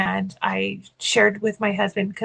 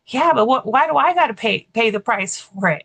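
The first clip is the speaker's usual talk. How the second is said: mock protest; 4 dB louder than usual. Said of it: "And he's like".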